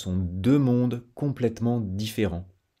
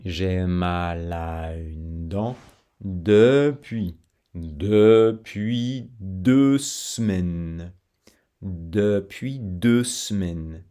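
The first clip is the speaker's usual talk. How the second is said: slow demo; much slower than usual. Shown as a demonstration. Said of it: "deux sons différents".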